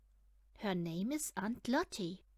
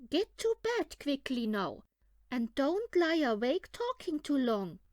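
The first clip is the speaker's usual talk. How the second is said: louder firm mother voice; bossy mother; 4 semitones higher, 6 dB louder than usual. A narrator's reading. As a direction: order the kids to bed. Mother rabbit orders kids.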